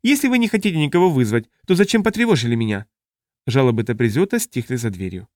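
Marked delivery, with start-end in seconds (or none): 0.0-2.9 high, complaining alien squeal; squeaky protest. A narrator's reading. Taprisiot objects as it is removed, squeaky protest. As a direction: protest in a thin, raised creature voice. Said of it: "Раздался песклявый протест".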